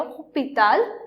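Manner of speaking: "Hospital" as French "ôpital", without the S; silent H. Shown as a demonstration. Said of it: "don't pronounce H over here".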